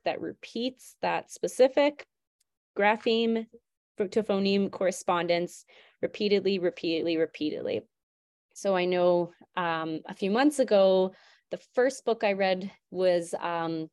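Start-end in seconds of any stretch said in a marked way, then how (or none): 6.0-7.8 fading repetition. Real, not acted. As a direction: let repeatedly fade away each time. Repeated word, fading.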